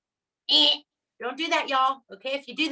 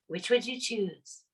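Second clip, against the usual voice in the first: slow asking demo; 2 semitones lower, 6 dB quieter, slower than usual. Shown as a demonstration. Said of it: "then you ask a question".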